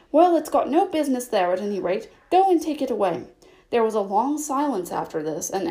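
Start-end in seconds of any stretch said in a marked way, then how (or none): 0.1-3.3 ordering. Acted. Rabbit ordering Pat.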